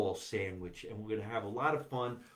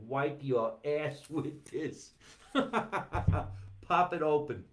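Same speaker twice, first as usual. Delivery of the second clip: laughing; much slower than usual. Real, not acted. Laughing at own joke.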